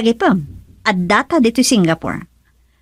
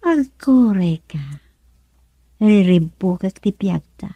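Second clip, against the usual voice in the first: slow, breathy crying whisper; tearful whisper; 5 semitones lower, slower than usual. Acted. Alone and hurt, a slow tearful whisper. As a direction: whisper it through tears, slowly.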